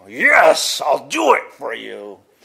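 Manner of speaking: very loud, all-out, swooping scream. Telling listeners how a man from Maine talks, imitating Ken Gears's screaming voice. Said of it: "that type of just screaming voice".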